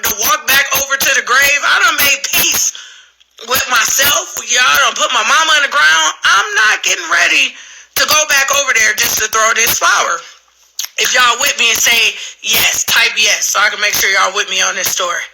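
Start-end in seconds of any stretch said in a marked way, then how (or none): 0.1-10.2 indignant outburst. Retold or imitated. Retold refusal at mother's grave.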